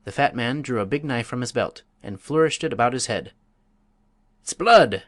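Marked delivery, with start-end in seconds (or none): 4.4-5.0 much louder, higher fierce bellow; fierce oath. A narrator's reading. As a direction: roar the oath with a knife raised. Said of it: "he ejaculated, fiercely".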